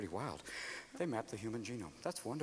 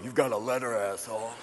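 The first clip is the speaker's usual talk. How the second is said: attitude; 9 semitones lower, 6 dB quieter than usual. Retold or imitated. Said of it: "It never cops an attitude going".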